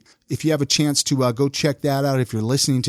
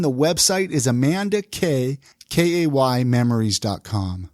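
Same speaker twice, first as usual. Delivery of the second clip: slow, clear website read; slow and spelled out; 2 semitones lower than usual. Shown as a demonstration. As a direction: spell it out slowly for listeners.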